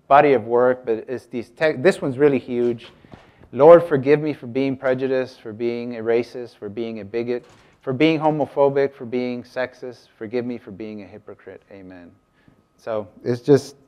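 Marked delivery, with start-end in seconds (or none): 3.5-12.1 reading a prayer. Acted. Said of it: "I'm doing these prayers".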